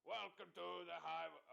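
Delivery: trying for the helium voice as it fades; helium wearing off. Acted. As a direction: attempt the high chant, voice dropping back. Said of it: "kicked out of the High Voice Crew".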